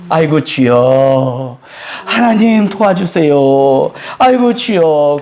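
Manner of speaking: a slow, drawn-out groan of "아이고, 주여"; pleading prayer. Retold or imitated. A believer in trouble cries out to God, slow and pleading. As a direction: beg God for help, stretching each word. Pastor voicing a desperate prayer.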